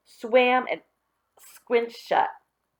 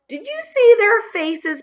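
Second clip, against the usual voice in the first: laughing; 13 semitones higher, 8 dB louder than usual. Acted.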